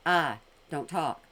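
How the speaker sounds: slow, low, mocking imitation of her sluggish speech; mocking slow talk. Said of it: "Because you're talking like this".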